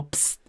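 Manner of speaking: short hissed "psst" with no voice; whispered psst. Shown as a demonstration. Calling to a woman across the street, a hiss. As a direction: hiss "psst" to get attention. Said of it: "say no".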